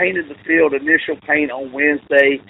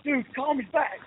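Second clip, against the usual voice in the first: retold whisper-yell; 9 semitones higher, 9 dB quieter than usual. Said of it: "whisper yelling into the phone".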